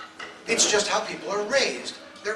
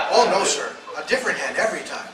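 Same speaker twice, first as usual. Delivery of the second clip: loud, laughing farmer; laughing through words; 6 dB louder than usual. Retold or imitated. Comic telling the farmer's line while cracking up.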